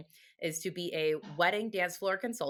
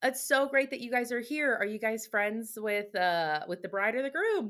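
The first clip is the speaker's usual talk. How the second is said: bubbly hostess voice; 4 semitones higher than usual. Retold or imitated. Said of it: "I was like".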